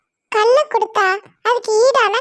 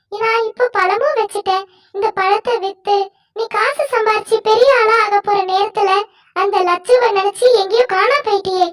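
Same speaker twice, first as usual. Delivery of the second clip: talking tree. Acted. The fruit tree talks to Sonu.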